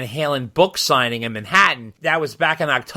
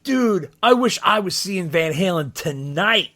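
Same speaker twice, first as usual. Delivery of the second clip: imitating a keen fan, slow and higher; excited fan; 4 semitones higher than usual. Stranger spotting a band shirt at a concert, excited fan. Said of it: "all excited 'cause he saw my shirt".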